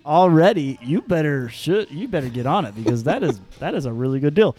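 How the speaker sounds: oversell it like an infomercial; hammed-up wow. Hammed-up ad enthusiasm.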